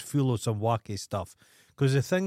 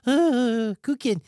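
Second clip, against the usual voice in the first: contented sigh; 9 semitones higher, much slower than usual. Retold or imitated. Man lying under the heat lamp, mock contented. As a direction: sigh it out like he's enjoying it.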